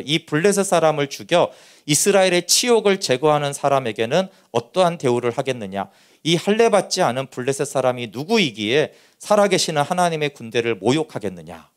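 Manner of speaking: measured, solemn Bible reading; lightly formal reading of scripture. Acted. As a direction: read the verse out to the congregation. Reads scripture aloud.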